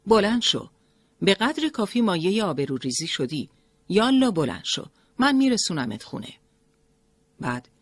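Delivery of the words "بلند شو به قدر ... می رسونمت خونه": loud, higher, sharp commands; harsh scolding. A narrator's reading. Driver rousing Mariam at the gate, harsh shout. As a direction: bark him up off the ground. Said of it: "با لحنی تند گفت".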